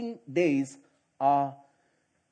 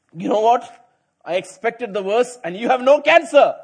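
bright, louder good-news announcement; relieved good news; 5 semitones higher, 9 dB louder than usual. Retold or imitated. Doctor gives the patient joyful news, louder and higher. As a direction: deliver the good news with a lift.

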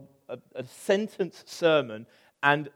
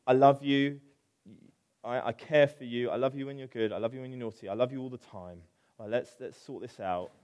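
soft, lower, gentle reassurance; tender parent; 4 semitones lower, 3 dB quieter, faster than usual. Retold or imitated. Imitating a parent reassuring their child, softly tender. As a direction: reassure a child quietly, fading to calm. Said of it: "I am capable of saying".

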